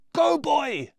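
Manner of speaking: high, loud urging call; yelling. Acted. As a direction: push him on with a shout. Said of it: "yells Brian".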